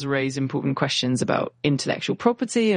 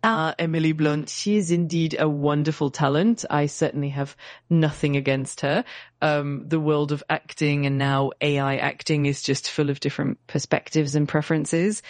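hammy fake French accent in English; bad French accent. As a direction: lay the French accent on thick and badly. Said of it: "using a really bad fake French accent".

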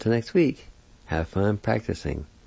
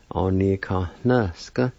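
careful pronunciation; slower than usual. Shown as a demonstration. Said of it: "I'll say the words one more time".

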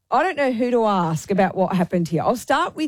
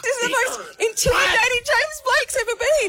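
outraged shout. Real, not acted. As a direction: shout it out, appalled. Outraged shout about a singer.

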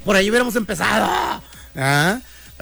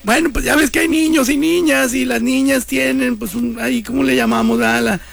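higher, stammering embarrassed dad; flustered father; 7 semitones higher than usual. Pretend. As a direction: fumble for the words like a cornered father. Papá nervioso intenta explicar. (papá nervioso explicándole a su hija, titubeando)

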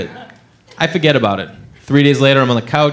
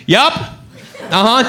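slow filler; 4 semitones higher, much slower than usual. Retold or imitated. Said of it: "just going".

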